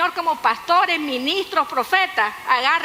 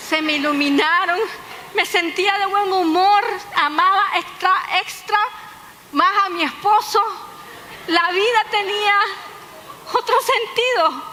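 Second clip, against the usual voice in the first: rising delight; 4 semitones higher than usual. Retold or imitated. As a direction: voice climbs higher with growing joy. Joy of eating meat again. (entusiasmo creciente, cada vez más agudo)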